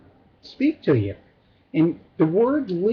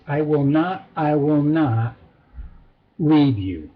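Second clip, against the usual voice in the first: measured repeat with weight on NOT; emphatic double negative; 2 semitones lower than usual. Shown as a demonstration. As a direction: say it twice firmly, pausing before LEAVE. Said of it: "it would be really literally said twice".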